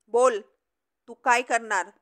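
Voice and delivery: loud taunting challenge in a quarrel; defiant shout. Acted. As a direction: throw the challenge back at him hard.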